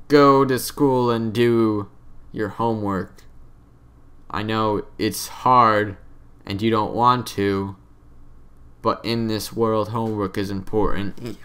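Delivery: slow, mock-earnest advice voice; preachy life lesson. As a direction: lightly parody a boring lecture. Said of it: "continue to talk like this".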